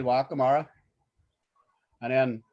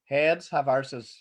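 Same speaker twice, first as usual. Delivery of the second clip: slow punchline; 4 semitones lower, much slower than usual. Real, not acted. Punchline to settle debate.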